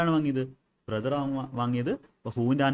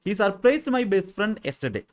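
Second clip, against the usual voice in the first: slow dictation; 8 semitones higher, 5 dB louder, much slower than usual. Shown as a demonstration. Teacher reading an example sentence to students, slow and clear. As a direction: read out very slowly and a little louder, word by word.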